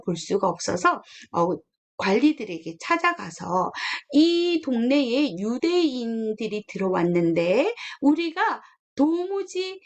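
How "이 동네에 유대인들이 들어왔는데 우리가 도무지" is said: masters accusing Paul before the officials, indignant; accusing complaint. Retold or imitated. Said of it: "이렇게 막 하는 거예요".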